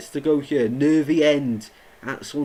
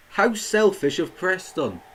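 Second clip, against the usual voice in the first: indignant; 5 semitones higher, slower than usual. Real, not acted. Preston refuse to return ball.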